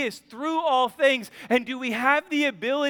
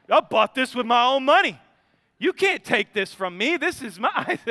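put-on loud, indignant child voice; whiny kid; 2 semitones higher, 5 dB louder than usual. Son defending his Nerf gun, loud kid whine. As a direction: play the little boy clinging to his gun. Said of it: "Isn't it cute when they get to this space?".

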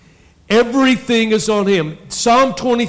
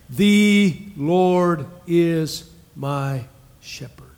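slow, breathy whispered line; 3 dB quieter, much slower than usual. Shown as a demonstration. Pastor whispering the verse to the congregation. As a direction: whisper it like a secret. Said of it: "we didn't quote it".

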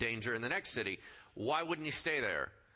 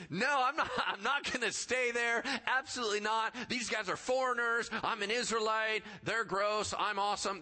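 higher-pitched, mock indignant refusal; haughty attitude; 6 semitones higher than usual. Master refuses to stay among foreigners, haughty mock indignation. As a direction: play up the self-important disdain. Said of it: "That kind of attitude, right?".

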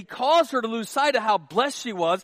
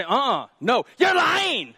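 accusing wife; 3 semitones higher, slower than usual. Acted. Wife accusing husband of lying, mock angry shout. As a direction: shout him down as the suspicious wife.

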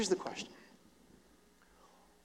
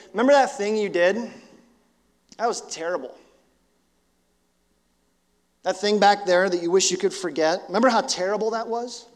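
voice of shame. Acted. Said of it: "Shame goes".

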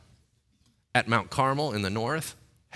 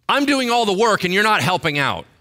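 high, loud aggrieved whine; mock bitter whine; 10 semitones higher, 11 dB louder than usual. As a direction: whine like a martyr doing everything. Elijah's bitter complaint voiced.

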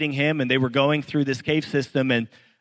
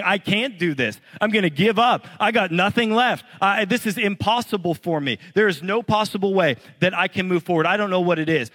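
higher, louder cry of giving up; despairing cry; 5 semitones higher, 3 dB louder than usual. Retold or imitated. A struggling churchgoer admits to the pastor he cannot go on, higher and louder in despair. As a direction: voice someone who has nothing left. Voicing a listener ready to quit.

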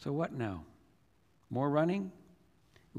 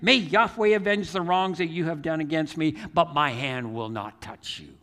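raised declaration settling to usual voice; shouted plea easing off; 2 semitones higher, 4 dB louder than usual. Retold or imitated. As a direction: start out calling, let it fall to a solemn close. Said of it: "he started shouting to".

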